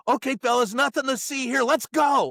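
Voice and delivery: a leader calling off his guys; rioter ringleader. Retold or imitated. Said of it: "he turns around to his guys and he goes".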